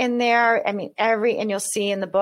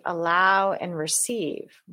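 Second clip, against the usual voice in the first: slow, deliberate guiding cue "Allow and receive"; slow instruction to the audience; slower than usual. Shown as a demonstration. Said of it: "And then if I say".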